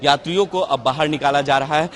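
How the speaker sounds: loud, projected field-reporter delivery; news report. Real, not acted. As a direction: report it firmly to the viewers. Reporter's piece to camera.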